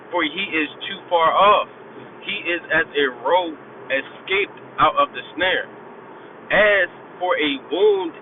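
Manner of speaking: put-on slow, measured reading of old verse; slow preacher's Bible reading; solemn scripture reading. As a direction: read each line slow and weighty, letting pauses sit. Reads scripture slowly, solemnly.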